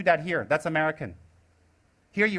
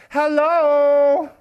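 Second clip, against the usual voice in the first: loud, higher scolding "Hello!"; indignant outburst; 6 semitones higher, 8 dB louder than usual. Real, not acted. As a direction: call them out, fed up. Outburst at critical lay people.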